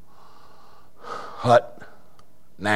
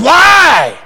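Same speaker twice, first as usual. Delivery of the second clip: retold challenge; 7 semitones higher, 4 dB louder than usual. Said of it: "He said".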